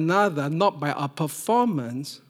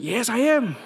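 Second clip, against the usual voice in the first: laughing agreement; 6 semitones higher, 4 dB louder than usual. Retold or imitated. Agreeing to son's accusation.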